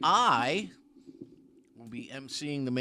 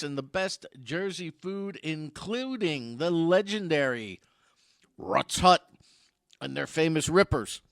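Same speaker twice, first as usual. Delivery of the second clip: movie trailer voice. Shown as a demonstration. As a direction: sell it like a blockbuster trailer. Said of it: "It's my movie trailer voice guy".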